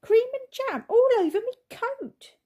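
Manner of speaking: shouting bitterly at the sticky bear; bitter outburst. A narrator's reading. Taxi driver shouting bitterly at the bear, loud and high. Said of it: "he said bitterly".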